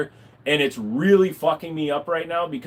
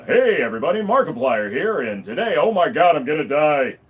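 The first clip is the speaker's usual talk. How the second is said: lightly voiced excited youtuber intro, rising to mock panic; a hint of a hyped YouTuber panicking; early Markiplier impression; 4 dB louder than usual. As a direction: imitate an early Markiplier video opener. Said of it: "his voice isn't as deep as it is".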